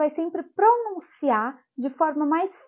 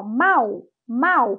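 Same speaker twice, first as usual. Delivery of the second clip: mal with the A said louder and longer than the U; stressed demo word; 3 semitones lower, 3 dB louder than usual. Shown as a demonstration. Teacher showing students the strong vowel in mal, stressed. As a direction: say mal twice, leaning on the A. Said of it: "percebam que o A, ele é falado de forma mais forte".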